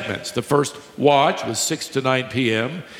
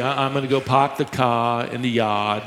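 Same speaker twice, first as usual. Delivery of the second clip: lightly put-on New England accent, r's dropped; a playful hint of New England accent; 3 semitones lower than usual. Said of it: "You New Englanders".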